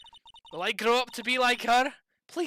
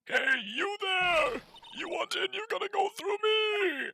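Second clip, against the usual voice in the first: shouting guard; 12 semitones higher than usual. Acted. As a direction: bellow them away from the gate.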